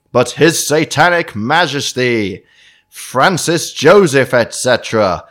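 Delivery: unhinged villain. Acted. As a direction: drag out His Satanic Majesty grandly. Reads the killer's letter dramatically.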